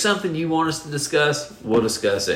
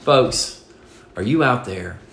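motivational speaker. Acted. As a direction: sell it like a stage speaker. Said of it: "I'm gonna do motivational speaker".

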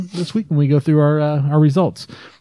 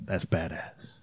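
tough mouse; 7 semitones lower, 16 dB quieter, slower than usual. Acted.

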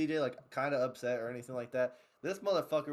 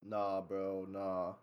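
low, softer brush-off; imitated dismissal; 8 semitones lower, 5 dB quieter, much slower than usual. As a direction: imitate him quietly shutting someone down. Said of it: "he's like".

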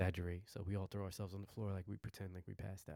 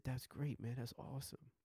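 lightly imitated pleased buddy, higher pitch; retold congratulation; 5 semitones higher than usual. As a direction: congratulate a pal on a raised note. Acts out friend's congratulation.

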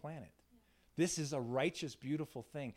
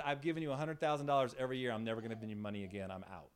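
retold cutting-off; 4 semitones lower, faster than usual. Donor cutting off money, retold.

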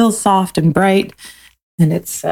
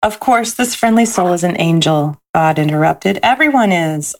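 gentle storybook read-aloud; lilting picture-book narration; reading to children; 2 semitones higher than usual. A narrator's reading.

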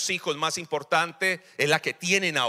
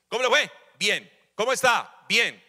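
mock interrogation; 4 semitones higher, 4 dB louder than usual. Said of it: "pregunta como un interrogatorio".

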